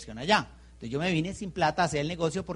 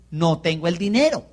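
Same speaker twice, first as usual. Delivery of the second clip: más lento; 5 dB louder than usual. Retold or imitated. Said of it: "Se lo dije más lento, a ver si de pronto lo entendía". (dicho más lento, para que lo entienda)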